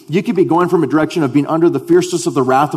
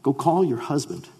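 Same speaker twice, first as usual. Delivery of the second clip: soft call; 7 dB quieter than usual. Acted. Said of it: "The woman answers and says".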